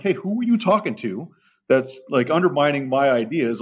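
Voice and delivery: mock-confronting a trainee, a bit pissed; retold irritation. Trainer challenges handler over who he's talking to, irritated. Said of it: "now I'm kinda pissed".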